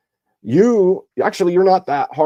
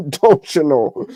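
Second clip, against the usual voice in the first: put-on Canadian accent; much slower than usual. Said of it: "I was mocking it".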